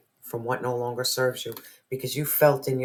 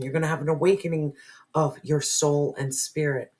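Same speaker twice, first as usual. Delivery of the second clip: a hint of a higher calling voice; lightly voicing the soul's call; voice of divine source; 3 semitones higher than usual. Soul calls the viewer away, lightly voiced higher. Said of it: "Divine source was crying out for you".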